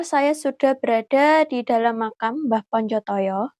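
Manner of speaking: hushed, careful vlog voice; nervous night vlog whisper. Real, not acted. Hushed talk inside the grave.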